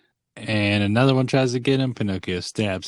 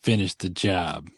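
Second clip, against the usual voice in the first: slow, lightly voiced henchman order; tall bully; 2 semitones lower than usual. Tall bully ordering the hanging, slow mock command. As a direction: draw it out like an understated heavy. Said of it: "the tall bully's like".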